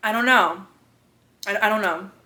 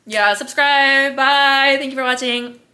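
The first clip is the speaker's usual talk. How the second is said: laughing; 3 semitones higher, slower than usual. Real, not acted. Giggly slow sign-off.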